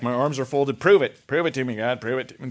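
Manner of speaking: mock defiant challenge, arms folded; a skeptic daring God to prove himself, mock defiant; defiant demand. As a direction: dare God to prove it, mildly hammed-up. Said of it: "If your posture is like".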